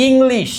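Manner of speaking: English with clear opening "i"; pronunciation demo. Shown as a demonstration. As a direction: sound out the "i" in English. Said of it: "আমরা ওয়ার্ডটা একটু পড়ি".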